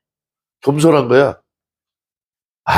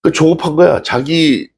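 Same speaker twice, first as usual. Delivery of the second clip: ordinary delivery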